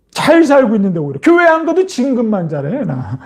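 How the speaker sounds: mild mock bragging; mocking scoffer. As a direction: crow about getting away with it. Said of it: "조롱하는 자들이 그렇게 얘기한다니까".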